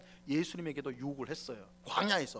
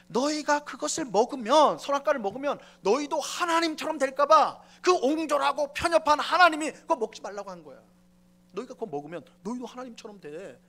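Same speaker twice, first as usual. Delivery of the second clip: raised, sly tempter urging them on; devil's taunting voice; 5 semitones higher, 5 dB louder than usual. Acted. Preacher voicing the serpent tempting Eve, sly and raised. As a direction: sell the lie like a smooth tempter. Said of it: "마귀가 즉각 뭐라고 하냐면".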